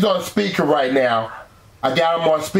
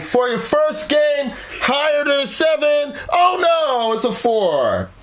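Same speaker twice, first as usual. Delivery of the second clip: excited; 9 semitones higher than usual. Real, not acted. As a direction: build it up then cry oh no. Host reveals card, loses.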